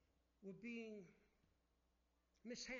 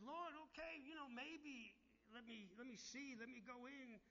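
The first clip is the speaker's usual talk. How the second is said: begging; 5 semitones higher than usual. Retold or imitated. Moses begging God to let him in, pleading higher. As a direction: plead like Moses asking to enter. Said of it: "And Moses even begged".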